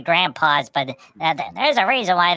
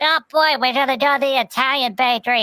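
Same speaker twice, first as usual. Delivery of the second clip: Pudgy thrilled about the bakery, high excited squeal; 9 semitones higher than usual. Retold or imitated. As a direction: squeal with delight at the treat. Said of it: "Pudgy's like".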